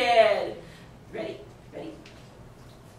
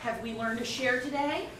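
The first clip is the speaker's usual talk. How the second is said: put-on soft, sing-song teacher to child; preschool teacher voice; 3 semitones lower, 5 dB quieter than usual. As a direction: talk down gently to a small child. Mock preschool teacher skit.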